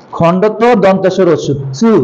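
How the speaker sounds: চু said clearly with a ch sound, not তু; careful pronunciation. Shown as a demonstration. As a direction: stress that চু is a ch sound. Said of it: "এই উচ্চারণটা অনেকেই ভুল করে".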